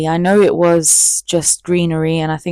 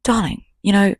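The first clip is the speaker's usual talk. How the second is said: mock posh darling; 2 semitones higher than usual. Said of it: "he never even spoke like that".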